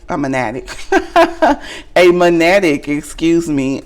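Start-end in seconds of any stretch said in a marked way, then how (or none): 0.1-0.7 country accent. Real, not acted. Reader catching her own slip, country accent. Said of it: "that's my country accent". 0.7-1.9 high-pitched burst of laughter. Real, not acted. Reader amused by her own pronunciation, laughing. 2.0-2.9 country-accent magnetic with the g swallowed. Real, not acted. Reader retrying a card word after laughing, country accent. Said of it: "that's my country accent".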